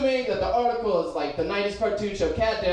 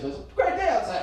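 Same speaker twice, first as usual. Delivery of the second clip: lightly sarcastic, pitched up; 5 semitones higher than usual. Shown as a demonstration. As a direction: say it with mock cheer. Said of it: "like, sarcastic".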